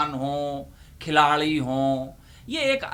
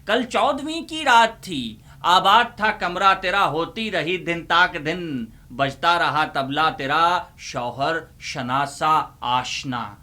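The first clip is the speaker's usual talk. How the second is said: mushaira recitation. Acted. Uncle recites a parody ghazal to students, declaiming.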